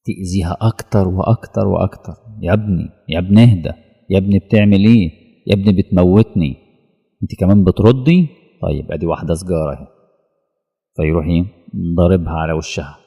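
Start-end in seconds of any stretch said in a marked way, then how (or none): 2.4-9.9 pleading mother voice. Pretend. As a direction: beg him to stop, hurried and pained. Soul begging its child to stop.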